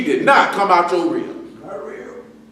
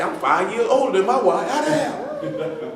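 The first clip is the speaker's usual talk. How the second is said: cracking up at the age gap, pitching way up; mock disbelief; 5 semitones higher, 4 dB quieter, slower than usual. A man laughing in high disbelief about his wife's age. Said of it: "Nigga say".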